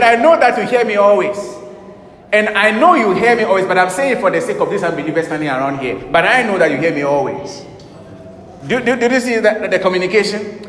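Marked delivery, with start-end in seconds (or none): 0.0-7.6 loud, high, triumphant declaration; bold confident. Retold or imitated. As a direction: proclaim it boldly to the Father. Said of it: "He said".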